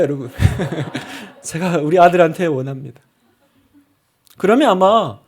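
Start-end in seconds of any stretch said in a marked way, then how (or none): 0.0-3.0 laughing. Real, not acted. Laughs mid sermon.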